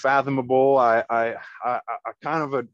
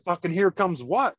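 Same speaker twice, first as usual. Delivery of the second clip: higher-pitched disbelief, rising at the end; retold incredulous question; 7 semitones higher than usual. Churchgoer questions Josh's warning, incredulous. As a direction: fire back a baffled question. Retelling his alarmed reply.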